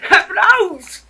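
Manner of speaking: loud, high, hammed-up crowd cheer; mock applause cheer. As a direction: cheer for yourself like a game show.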